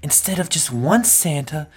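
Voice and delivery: put-on kid storyteller. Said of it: "tell this to the kids".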